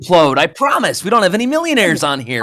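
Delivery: Rocky voice. Acted. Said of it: "Rocky assuring everyone".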